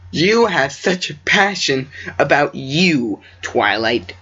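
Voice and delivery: slow and drawn out, falling; slow earnest retake; slow deliberate read. Shown as a demonstration. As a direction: draw each word out slowly. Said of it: "does that not sound kinda weird".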